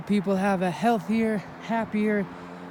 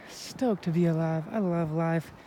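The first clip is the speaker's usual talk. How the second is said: breathless from climbing; winded, catching breath between words; 3 semitones lower, 4 dB quieter than usual. Acted. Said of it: "I'm a little out of breath".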